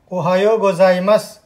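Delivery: ओहायो गोजाइमस said slowly and clearly, syllable by syllable; teacher modelling ओहायो गोजाइमस for learners to copy; slow model phrase. Shown as a demonstration. Teacher to students, modelling the Japanese greeting: slow and clear. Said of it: "ध्यान रखना pronunciation पे".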